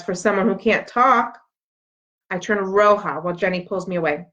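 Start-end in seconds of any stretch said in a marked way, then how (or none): 0.0-1.4 slow, cutting jab; sneering insult. Acted. Mean girl mocking Stella's silence, slow and snide. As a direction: twist the knife slowly. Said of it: "Bridget adds".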